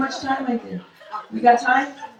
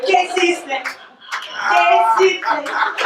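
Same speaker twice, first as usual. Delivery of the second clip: mock Puerto Rican persona; 5 semitones higher than usual. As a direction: ham up a proud Puerto Rican lady. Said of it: "I'm like".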